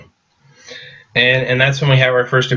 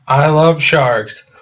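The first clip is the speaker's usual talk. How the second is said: slow, slightly higher deadpan line; mock earnest girl; 4 semitones higher, much slower than usual. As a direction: say it slowly like an odd fan. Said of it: "It's like".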